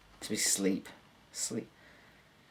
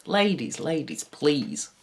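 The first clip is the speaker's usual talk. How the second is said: mock modest; 4 semitones higher, 3 dB louder, slower than usual. Mock calming of admirers.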